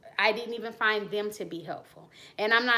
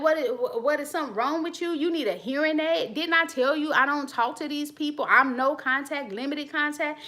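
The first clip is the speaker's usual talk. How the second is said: mock exasperation; 5 semitones higher than usual. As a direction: let them have it, fed up. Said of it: "I'd be like".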